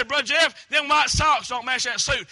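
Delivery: firm correction of a church brother; reproving call-out. Shown as a demonstration. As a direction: call him out on it firmly. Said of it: "I, I'm reproving him".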